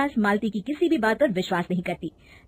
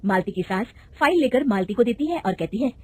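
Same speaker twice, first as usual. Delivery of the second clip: usual speaking voice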